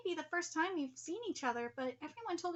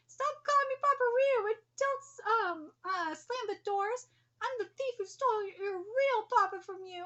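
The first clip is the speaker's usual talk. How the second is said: higher, louder retold shout; retold outburst; 6 semitones higher, 5 dB louder than usual. Daughter retelling Ryu's angry reply, mock shout. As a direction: snap back in guilt. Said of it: "retold Ryu's reply".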